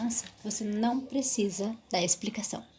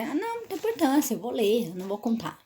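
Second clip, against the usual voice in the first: mock dismissive teacher. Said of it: "Mesmo que você vai".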